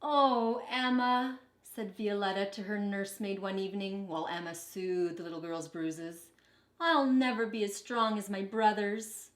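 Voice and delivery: put-on lively picture-book reading for kids; storybook read-aloud. A narrator's reading. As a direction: read it like a teacher to her class. Teacher reads picture book aloud.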